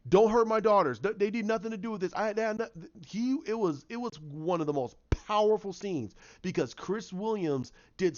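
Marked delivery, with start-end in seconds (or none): 0.1-2.7 mock pleading. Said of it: "He was scared to death".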